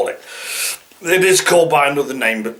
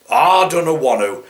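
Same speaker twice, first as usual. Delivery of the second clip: put-on East Midlands accent. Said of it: "somebody doesn't want to do".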